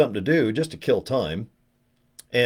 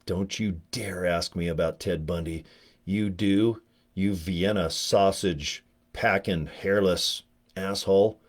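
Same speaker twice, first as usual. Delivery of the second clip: imagined lady's threat; 3 semitones lower, 4 dB quieter, slower than usual. Retold or imitated. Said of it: "she's probably like".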